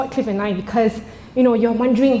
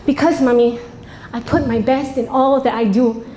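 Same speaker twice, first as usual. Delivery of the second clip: put-on child voice. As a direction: play the earnest proud child. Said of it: "and she goes".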